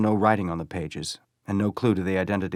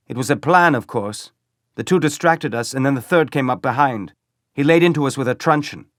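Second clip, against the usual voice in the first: higher, louder brute boasting; gap-toothed stormtrooper; 6 semitones higher, 7 dB louder than usual. Acted. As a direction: bluster through missing teeth. Third brown shirt explains ambush.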